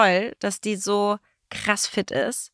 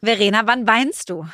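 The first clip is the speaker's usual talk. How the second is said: fröhlich vorgetragen. Real, not acted. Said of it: "Das trägst ja sehr fröhlich vor".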